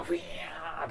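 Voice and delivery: rising guitar whine, voiced; guitar feedback imitation. Host describing the band's noisy guitar, imitated whine. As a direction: mimic a wailing guitar. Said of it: "もうギターがフィーンとこう".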